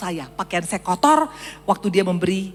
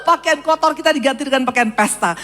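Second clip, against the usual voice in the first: joyful proclamation; 7 semitones higher, 3 dB louder than usual. Real, not acted. Joyful proclamation after Wow.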